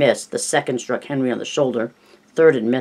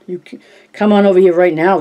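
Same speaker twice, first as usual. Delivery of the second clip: loud threat; 5 semitones higher, 7 dB louder than usual. A narrator's reading. Bully threatens the kids.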